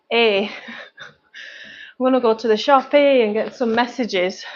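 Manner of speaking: slow, imitated Scottish boyfriend; broad Scottish accent. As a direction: mimic broad Scottish speech, taking it slowly.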